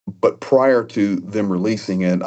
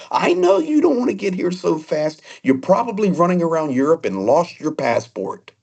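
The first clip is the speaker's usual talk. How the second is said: put-on teasing British accent; 9 semitones higher than usual. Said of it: "in that British booming accent".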